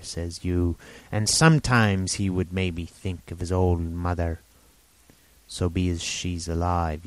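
lightly voiced rambling old sailor; a hint of an eager half-mad hermit; old castaway Ben Gunn.

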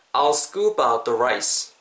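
"I'll scoop out the rice" slow and linked; repeat-after-me model. Shown as a demonstration. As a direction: give "I'll scoop out the rice" slowly to copy. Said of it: "한 번만 더". ("I'll scoop out the rice"를 천천히 이어서 시범)

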